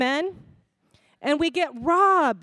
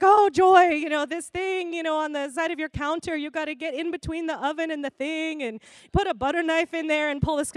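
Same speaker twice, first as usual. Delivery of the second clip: put-on mom's Korean-accented nagging, slightly raised; 3 semitones higher than usual. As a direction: imitate a Korean mom pointing out dirt. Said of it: "sorry if I'm doing the accent".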